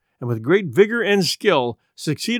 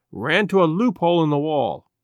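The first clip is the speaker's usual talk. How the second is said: ordinary delivery, nothing marked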